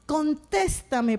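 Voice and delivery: soft, slow plea; pleading prayer. Retold or imitated. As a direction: beg God gently and slowly. Mother prays for her son. (súplica suave y lenta)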